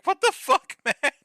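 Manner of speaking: high, loud, incredulous outburst; acted shock. Bonnie rushing in on Matt in the pool, acted shock. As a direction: exclaim it in mock alarm.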